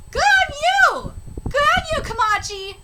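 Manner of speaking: high, loud cheer of approval; hearty approval. Real, not acted. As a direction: congratulate them with gusto. Congratulating a character aloud.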